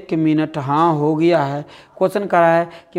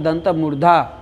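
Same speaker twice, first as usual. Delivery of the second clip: ordinary talk, nothing marked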